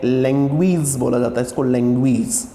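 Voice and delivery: लैंग्वेज said as "lengwij", ending in a long ई sound; teacher models लैंग्वेज with the ई ending; correct pronunciation. Shown as a demonstration. Teacher demonstrating the right way to say लैंग्वेज for students. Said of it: "लैंग्वेज का सही transcription".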